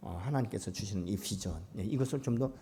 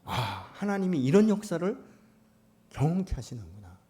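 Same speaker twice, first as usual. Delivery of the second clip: ordinary talk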